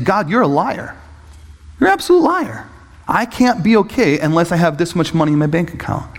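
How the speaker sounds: mock-bitter protest at God; acted-out angry complaint; angry accusation. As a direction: accuse heatedly, retelling your own outburst. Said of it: "I was angry. I was bitter".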